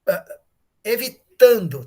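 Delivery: normal talking voice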